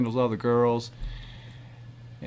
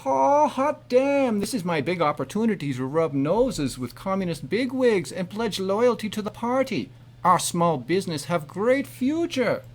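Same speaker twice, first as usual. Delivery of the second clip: put-on character voice; 4 semitones higher than usual. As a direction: ham up the excited father. Skit character reacts to party invite.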